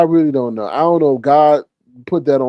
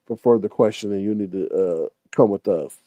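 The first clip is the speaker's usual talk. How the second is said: mock officer detaining; 6 semitones lower, 4 dB quieter than usual. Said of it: "they said".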